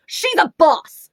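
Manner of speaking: high, loud, drawn-out cheer; excited gushing. Real, not acted. Reviewer shows off the heroine, loud gushing. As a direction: belt it out slowly in admiration. Gushes over heroine on cover.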